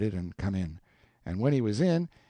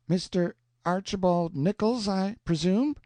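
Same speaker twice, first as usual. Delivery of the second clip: put-on higher, courtly young gentleman; gracious Tom; 8 semitones higher than usual. A narrator's reading. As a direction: greet him with dainty grandeur. Tom's grand gracious greeting.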